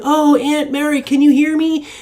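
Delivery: high spooky calling voice; hammed-up medium calling a dead aunt; mock seance call. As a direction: summon the spirit, pitched well up. Calling spirits at Ouija board.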